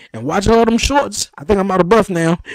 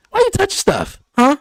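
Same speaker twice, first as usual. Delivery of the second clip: scolding; 12 semitones higher than usual. Retold or imitated. Scolding the son in retelling.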